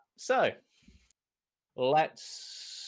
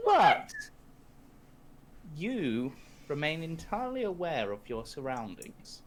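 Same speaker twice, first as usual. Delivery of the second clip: game master setting the scene, hushed; scene-setting narration; 3 semitones higher than usual. Acted. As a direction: draw the player into the vision. GM describes the vision scene.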